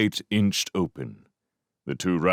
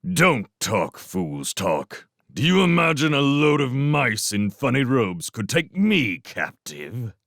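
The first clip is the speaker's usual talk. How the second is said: contemptuous; 4 semitones higher than usual. Acted. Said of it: "spat contemptuously".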